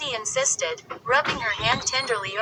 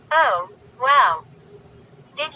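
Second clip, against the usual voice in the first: scornful laugh; 5 dB louder than usual. A narrator's reading. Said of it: "Lindy laughed scornfully".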